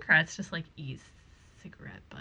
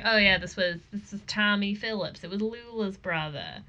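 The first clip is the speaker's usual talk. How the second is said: local cop voice. Acted. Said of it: "that's the local cop voice".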